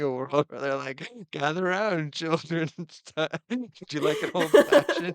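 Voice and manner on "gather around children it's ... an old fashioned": lightly voiced parent gathering the kids; a touch higher, amused mock-announcement to children; playful parent role. Imagined Duggar parent calling the kids.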